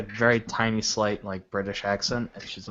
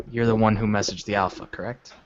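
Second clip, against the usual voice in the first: repeated louder for clarity; 4 dB louder than usual. Acted. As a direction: say it again, louder and clearer. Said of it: "can you say that one more time".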